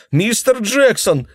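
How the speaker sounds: very high, loud scream of his name; girl crying out after being struck. Acted. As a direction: shriek after being hit. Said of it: "вскричала она".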